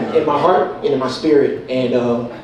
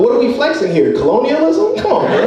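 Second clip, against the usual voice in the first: higher and higher, laughing disbelief; mock outrage; 9 semitones higher than usual. Mock outrage at a friend flexing his French name. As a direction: climb up in pitch, cracking up. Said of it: "'cause I was like".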